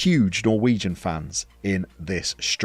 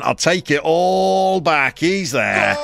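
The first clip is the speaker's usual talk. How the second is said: louder, higher rising excitement; excited goal call; 6 semitones higher, 4 dB louder than usual. Real, not acted. Streamer cheering his striker through on goal, excited.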